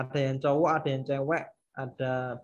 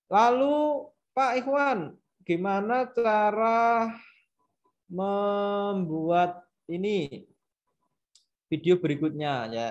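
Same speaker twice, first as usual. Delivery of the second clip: eager trainee asking; 6 semitones higher, slower than usual. Acted. Voices a trainee asking the teacher.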